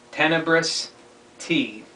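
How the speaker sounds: "Tenebrous" said distinctly, "T" set apart and falling; careful pronunciation. Shown as a demonstration. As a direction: teach "Tenebrous T" with a pause before "T". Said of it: "my name is to be pronounced".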